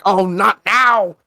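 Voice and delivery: hammed-up frustrated Santa; mock exasperation. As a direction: groan it slowly as the trick fails. Santa's magic fails him.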